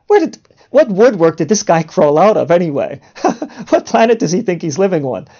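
amused mock disbelief with a laugh midway; humorous mock incredulity. Woman's thoughts about a forward stranger, humorously incredulous. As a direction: scoff at him, playing it for laughs. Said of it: "I'm doing this humorously".

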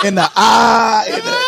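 drawn-out mimicked "ah"; slow, hammed-up catchphrase cry; Jerome Rome catchphrase. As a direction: stretch it out in a mock holler. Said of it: "he picked up the".

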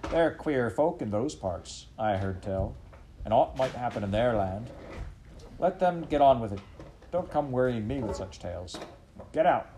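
shooing the dog away; dismissive farmer. Acted. Farmer to dog, gruffly dismissing the tale.

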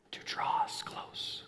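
slow, hushed whisper. Shown as a demonstration. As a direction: draw listeners in with a whisper. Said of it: "when I whisper like that".

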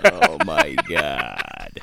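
low, slow exasperated reaction; weary, laughing disbelief; amused groan. Real, not acted. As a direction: drag it out after a terrible joke. Groaning laughter after bad joke.

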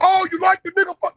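prissy mock-polite question; mock soft high voice. Shown as a demonstration. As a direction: sing it up high, sweetly mocking. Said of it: "How I gotta say it?".

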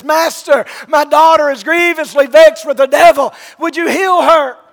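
loud, high mock cry; crying from a distance. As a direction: imitate her yelling from far off. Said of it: "crying from a distance".

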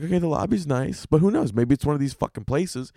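high, fast rant at the hotel; inner monologue at the hotel. Retold or imitated. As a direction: sneer it at Best Western as the words speed up and climb. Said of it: "You're like".

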